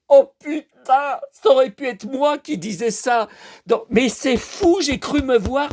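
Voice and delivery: astonished to recognise yourself; amazed self-recognition. Real, not acted. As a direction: exclaim high, stretching the first words. Delighted self-recognition in film.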